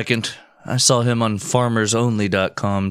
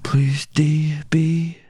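mock proposal; 4 semitones higher than usual.

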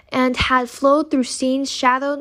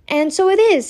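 put-on higher, louder excited child; child exclaiming; 8 semitones higher, 3 dB louder than usual. Pearl spots the minister, high and excited. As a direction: Pearl spotting him through the trees. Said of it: "said the child".

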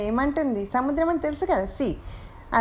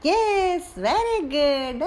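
happy; 3 semitones higher, much slower than usual. Acted. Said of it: "సంతోషంగా".

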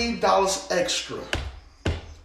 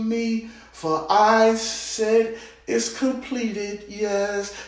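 slow prophetic declaration; 2 semitones higher, much slower than usual. Acted. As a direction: declare it calmly, word by word.

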